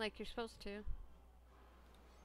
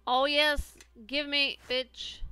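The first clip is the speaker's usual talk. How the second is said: excited; 3 semitones higher, 10 dB louder, slower than usual. Real, not acted. Excited at game loot.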